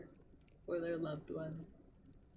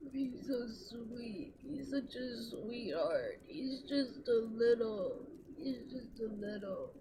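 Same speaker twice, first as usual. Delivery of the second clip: slow gushing; 3 semitones higher, slower than usual. Real, not acted. Gushing over her baby boy.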